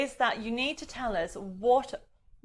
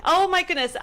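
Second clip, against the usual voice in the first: laughing; 3 semitones higher, 6 dB louder than usual. Real, not acted. Laughing about the tech trouble.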